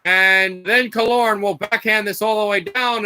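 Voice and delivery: brisk hockey play-by-play call; steady broadcast play-by-play; live play-by-play. Acted. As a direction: call the puck as it moves.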